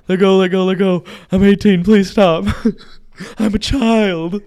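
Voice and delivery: loud, high frantic plea with a laugh; panicked pleading. Retold or imitated. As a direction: beg to be let go like a scared kid. Customer death-gripping her wrist.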